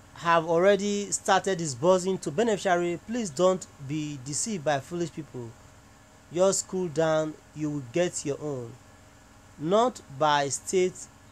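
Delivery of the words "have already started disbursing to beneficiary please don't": plain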